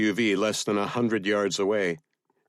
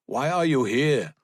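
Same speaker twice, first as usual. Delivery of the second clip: higher-pitched soldier's question; suspicious soldier, pitched up; interrogating soldier; 6 semitones higher than usual. A narrator's reading. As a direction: demand an explanation in a raised voice.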